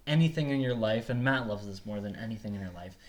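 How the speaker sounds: booming preachy cult leader, laughing. Pretend. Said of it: "I do sound like a cult leader".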